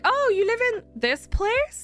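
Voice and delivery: high, slow, mock surprised clerk; mock nosy clerk. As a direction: drag it out high, parodying their nosiness. Mocking bank staff's question.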